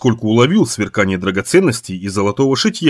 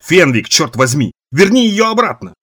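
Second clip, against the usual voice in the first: shouting; 5 semitones higher than usual. Acted. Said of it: "закричал Рид Чалмерс".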